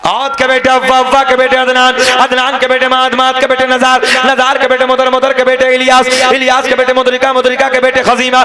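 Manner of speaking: rhythmic chanted lineage, held at full preaching force; preaching recitation. Acted. Preacher reciting the lineage to the gathering, full preaching. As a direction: intone each name to the crowd like a sermon.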